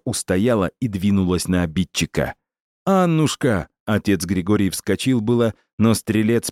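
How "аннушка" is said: высокий отчаянный зов; крикни её имя в ужасе. Acted. Священник зовёт раненую жену. (отчаянный зов)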